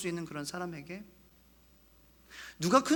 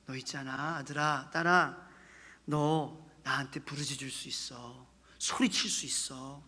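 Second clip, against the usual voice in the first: soft, low, slow, fatherly tone; gentle permission; 5 semitones lower, 5 dB quieter, slower than usual. Acted. God gently allowing his child to cry out, tenderly. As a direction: grant it tenderly, unhurried. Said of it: "허락해 주시는 것입니다".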